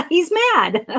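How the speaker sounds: laughing. Real, not acted. Laughing at the card with the viewer. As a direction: chuckle through the words.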